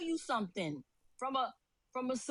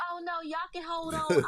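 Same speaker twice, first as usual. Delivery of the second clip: high, bass-less mock male voice; effeminate young man; 4 semitones higher, 5 dB louder than usual. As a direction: imitate a man with no bass in his voice. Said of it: "Where is the bass in the voice?".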